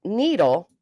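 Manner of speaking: "needle" drawn out as NEE-dle; rhyme model. Retold or imitated. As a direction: say needle slowly, long EE. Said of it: "she told me, like, needle".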